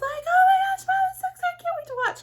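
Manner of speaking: squealing very high and loud; hype girl squeal. Retold or imitated. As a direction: squeal with over-the-top excitement. Hype daughter threw hands up.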